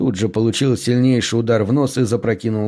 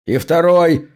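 short commanding bark, raised pitch; higher, louder command; barked order; 6 semitones higher, 4 dB louder, slower than usual. A narrator's reading. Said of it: "рявкнул тот же голос".

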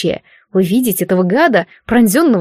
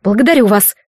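ceremonious. Acted. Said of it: "церемонно ответила Агнесса".

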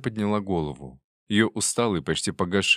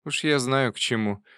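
put-on insistent old aunt; 7 semitones higher than usual. A narrator's reading.

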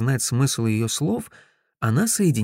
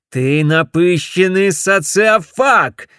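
loud, slow snarled shout; growled insult; 6 semitones higher, 8 dB louder, slower than usual. Acted. Ted snarls an insult at Griff, loud and slow. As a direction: snarl it at him. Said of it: "прорычал я".

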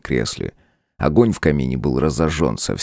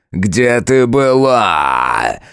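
громко и очень медленно ревёт; прореветь каждое слово; рёв; 6 semitones higher, 5 dB louder, much slower than usual. A narrator's reading. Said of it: "заревел тот". (яростный рёв демона)

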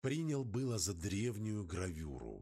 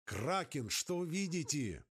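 calling into radio; 6 semitones higher than usual. Acted.

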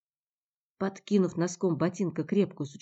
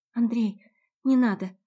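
urgent plea; 6 semitones higher, 6 dB louder than usual. Acted. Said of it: "попросила она".

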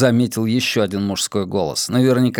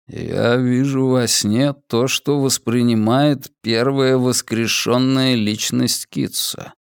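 slow, dull, sleep-talking monotone; slower than usual. Acted. Drugged prisoner answering, slow dull monotone. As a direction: speak as if in a dream. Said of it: "голос звучал глухо и монотонно".

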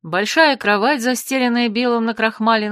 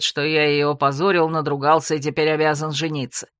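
lower, rising male voice ranting at his brother; irritated elder brother; 5 semitones lower than usual. Acted. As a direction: berate him with scorn. Elder brother's angry tirade.

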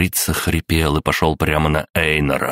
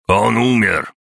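shouting news; 6 semitones higher, 3 dB louder than usual. A narrator's reading.

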